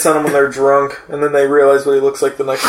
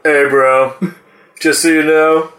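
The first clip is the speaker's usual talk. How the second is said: stoner goldfish voice; 4 semitones lower, slower than usual. Pretend. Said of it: "spirit came out, was like".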